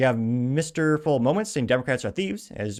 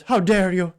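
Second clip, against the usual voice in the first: mocking Greta impression; 8 semitones higher, 7 dB louder, slower than usual. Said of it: "the girl that goes".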